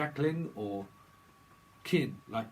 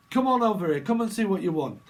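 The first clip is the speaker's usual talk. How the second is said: game show host; 6 semitones higher, 7 dB louder than usual. Retold or imitated. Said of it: "a little bit like Bob, Bob Holness".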